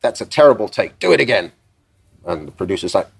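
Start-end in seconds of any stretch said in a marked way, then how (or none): 0.0-1.5 a singer. Retold or imitated. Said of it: "he suddenly goes".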